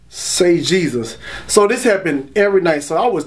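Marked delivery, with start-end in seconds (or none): 0.1-1.2 calm slow whisper. Retold or imitated. Gentle voice heard in his head.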